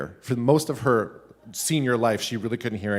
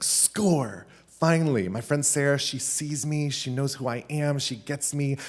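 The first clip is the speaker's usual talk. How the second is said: higher, giddy inner voice; retold boyish excitement; 4 semitones higher than usual. Sixth grader learning his crush likes him, higher-pitched excited gushing. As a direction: gush like a lovestruck sixth grader. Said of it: "I was so excited".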